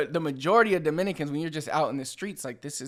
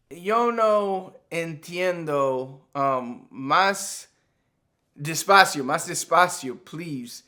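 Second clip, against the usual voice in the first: confused foreigner; 4 dB louder, much slower than usual. Acted. Skit: confused gringo customer.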